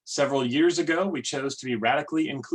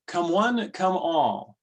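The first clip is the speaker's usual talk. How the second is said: opening words of worship, lifted and higher; read as a poem; 4 semitones higher, much slower than usual. Acted. Worship leader opens the poem, inviting and raised. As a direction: call the congregation in, ringing out. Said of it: "Today's opening words are from".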